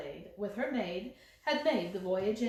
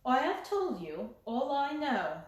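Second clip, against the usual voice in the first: set like a mask; 2 semitones higher than usual. Acted. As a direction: close the door on him. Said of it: "caused it to set like a mask".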